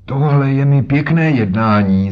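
put-on old man furious at being held; indignant old man. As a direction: bang your stick and protest. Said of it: "zvolal a třískl holí".

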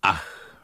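soft low ach; sigh. Acted. Hungry Alík sighing at the shop window, low. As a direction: let out a small sigh. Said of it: "vzdychl Alík".

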